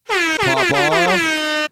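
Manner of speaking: high, loud hype call; big shout-out hype. Acted. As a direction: yell it like a shout-out drop.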